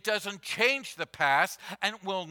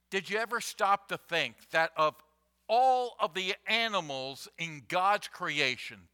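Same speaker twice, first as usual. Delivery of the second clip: ordinary delivery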